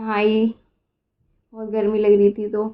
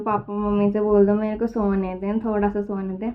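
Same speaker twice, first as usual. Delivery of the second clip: pleading request; 3 semitones lower, 5 dB quieter than usual. Retold or imitated. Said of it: "बहुत ज़्यादा request करती हूँ मैं".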